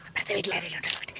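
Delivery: quick hushed whisper, barely voiced. Real, not acted. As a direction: whisper fast so the neighbours won't hear. Peeking at the neighbours' house. (വേഗത്തിലുള്ള പതിഞ്ഞ സ്വരത്തിലുള്ള മന്ത്രണം)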